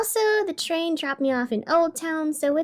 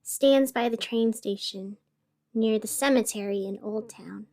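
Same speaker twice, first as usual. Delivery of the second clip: story narration. A narrator's reading. Host narrates eerie train tale, hushed.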